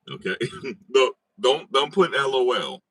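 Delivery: cracking up while telling chat off; laughing plea, half shouted; laughing protest. Real, not acted.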